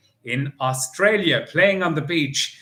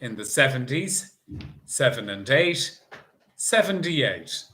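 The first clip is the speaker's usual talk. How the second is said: bingo caller. Acted. Bingo caller calling numbers.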